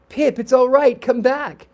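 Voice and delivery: high, loud, pleading call; calling after someone. Acted. Boys call Pip back from the stairs, shouting. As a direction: holler to bring the runner back.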